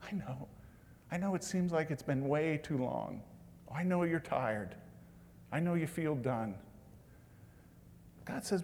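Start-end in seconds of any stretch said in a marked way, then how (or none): 0.0-6.5 gentle God voice. Retold or imitated. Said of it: "and he says".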